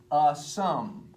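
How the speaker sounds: "a sum" with weight on "a"; trochee stress. Shown as a demonstration. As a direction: stress "a" in "a sum", spaced apart. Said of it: "the accent is on the first word".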